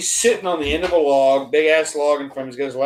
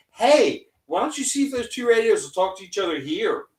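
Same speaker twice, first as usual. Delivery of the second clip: higher retold call to the guys; 4 semitones higher than usual. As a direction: toss out a pointed suggestion. Retold calling out suggestion.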